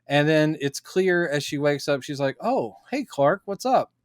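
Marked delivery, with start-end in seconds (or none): 2.4-3.9 mock oblivious greeting. Retold waking, having forgotten everything.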